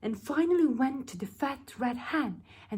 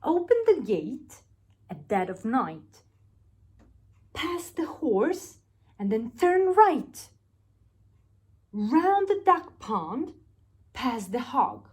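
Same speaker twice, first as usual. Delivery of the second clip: lightly voiced plotting crook; plotting thief; 2 semitones higher than usual. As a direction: spell out the secret route like a crook. Thieves' plan recited.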